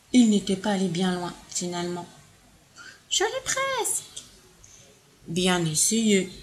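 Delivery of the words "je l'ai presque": straining reach. Acted. Elephant almost reaches fruit.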